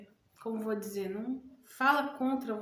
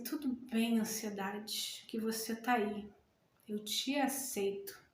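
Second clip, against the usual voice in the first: calm self-reassurance; 2 semitones lower, 4 dB quieter than usual. Shown as a demonstration. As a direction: calmly accept the feeling. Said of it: "E fala assim". (autoafirmação calma, suave e lenta)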